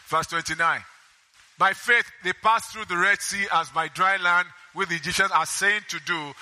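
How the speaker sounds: steady Bible reading voice; preacher reading Hebrews aloud; scripture reading. Acted. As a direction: read the verses out to the congregation.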